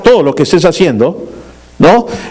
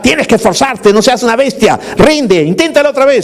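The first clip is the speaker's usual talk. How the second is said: mock father's yell; 6 semitones higher than usual. Dad pushing small son to score baskets, mock yell. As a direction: imitate a pushy dad drilling his kid. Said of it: "y lo empezaba a gritar".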